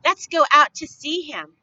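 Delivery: a lively invitation to the crowd; eager call to go. A narrator's reading. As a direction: urge everyone out the door. Townsperson urging crowd.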